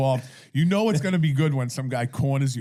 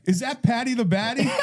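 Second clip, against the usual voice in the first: imitating the woman; 11 semitones higher, 4 dB louder than usual. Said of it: "she goes".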